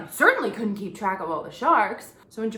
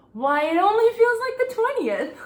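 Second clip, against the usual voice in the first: higher, louder exaggerated weariness; mock weary; 12 semitones higher, 6 dB louder than usual. Real, not acted. Complaining to viewers about the long week, mock weary. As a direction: sigh it out like a drama queen.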